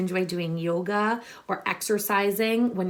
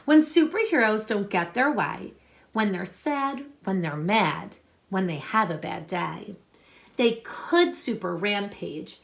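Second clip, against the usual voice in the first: put-on reading a picture book aloud to children; story reading. Teacher reading a superhero book to her class, storytelling voice.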